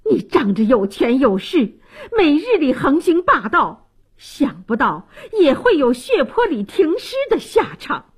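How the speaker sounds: vindictive scolding, pitch climbing; indignant gloating rebuke; cursing. Acted. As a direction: berate the dead bully. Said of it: "便指着尸体骂道".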